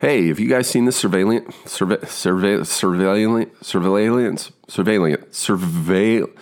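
stammering over "surveillance", repeating it again and again; stuck stammering. Retold or imitated. Actor stuck on a word in the audition, stammering. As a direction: keep restarting "surveillance", can't get it out. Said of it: "I start looking at the page now".

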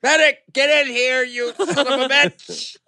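man down shout. Acted. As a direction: shout for the medic like a soldier. Calling for medic.

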